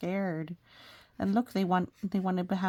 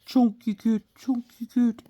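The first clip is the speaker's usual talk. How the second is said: playful cooing; 4 semitones higher, 8 dB louder than usual. Pretend. Cooing at chunky cat picture.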